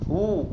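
"وو" as a separate long "wu"; waw with damma. Shown as a demonstration. Teacher repeating waw with damma, "وو" said as "wu". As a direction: round the vowel of "وو" into "wu". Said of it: "واو ضمة ت".

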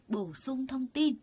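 Bổ sung thông tin said slowly and clearly; slow, stressed term. Shown as a demonstration. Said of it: "người ta nói cấu trúc này là cấu trúc gì".

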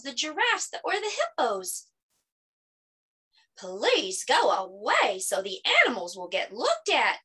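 measured storybook narration with lifted quotes; children's story reading. Acted. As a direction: read a picture book aloud to children.

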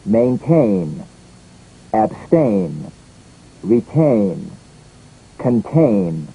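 main-TAIN, ab-STAIN, re-TAIN, con-TAIN, endings drawn out and falling; stressed ending. Shown as a demonstration. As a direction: stress the last syllable of Maintain, abstain, retain, contain. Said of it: "it's a stressed ending".

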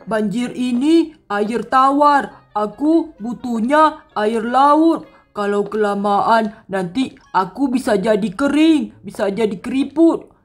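drawn-out, complaining worm king; suffering worm king. Acted. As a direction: whine about the heat, stretching some words. Plays the overheated worm king. (raja cacing mengeluh kepanasan)

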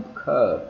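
"curb" stretched, lips snapping shut on B; long vowel, closed lips. Shown as a demonstration. Teacher demonstrating long vowel then closed B in "curb". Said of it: "kéo dài ra như vậy".

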